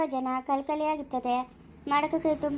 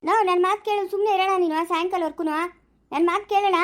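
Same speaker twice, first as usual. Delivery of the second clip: insistent pleading; 2 semitones higher than usual. Acted. Pleading with husband to stop.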